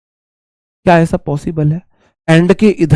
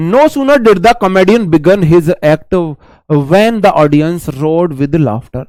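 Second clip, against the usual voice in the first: slow sentence reading; much slower than usual. Shown as a demonstration. Reads example sentence.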